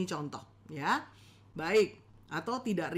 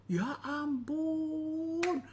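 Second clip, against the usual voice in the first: slow, drawn-out mock disbelief; lightly acted disappointed spouse; a touch of dramatic shock; mock dismay; 3 semitones higher, slower than usual. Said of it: "mulai kaget-kaget".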